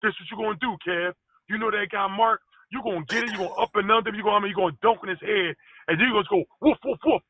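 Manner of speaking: light imitation of a brash player; mock Kevin trash talk. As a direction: hype yourself up like a trash-talking teammate. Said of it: "He would talk in third person".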